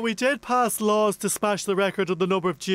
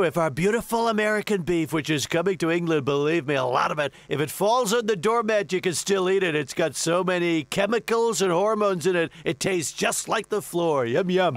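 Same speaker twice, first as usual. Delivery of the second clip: lightly voiced blustering president; a hint of a boastful US president, rambling; boastful president riffing on beef; President impression. Plays the US President.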